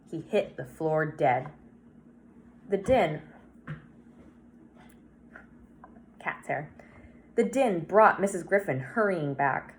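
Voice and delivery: measured read-aloud storytelling with lively dialogue; story narration. A narrator's reading. Reader telling Harvey's story to viewers, story narration. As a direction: read a children's story, acting the lines lightly.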